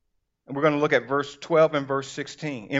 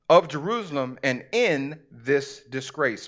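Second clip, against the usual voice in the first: measured, emphatic scripture reading; deliberate pulpit storytelling; slower than usual. Acted. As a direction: read the Bible story out to a congregation. Reads scripture aloud to congregation.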